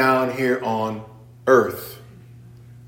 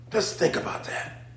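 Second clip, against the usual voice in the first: hushed aside; 11 dB quieter than usual. Real, not acted. Preacher hushing the congregation, near whisper.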